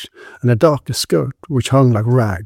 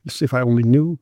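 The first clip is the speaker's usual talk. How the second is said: casual. Acted. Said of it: "she said casually".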